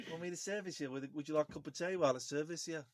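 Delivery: imitating a Midlands accent; attempted Midlands accent. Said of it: "it's the accent sexy".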